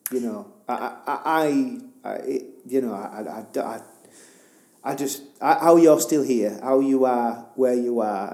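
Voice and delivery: halting, broken-off words after crying; faltering, tearful admiration; choked up. Real, not acted. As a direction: struggle to get each word out. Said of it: "I've been crying".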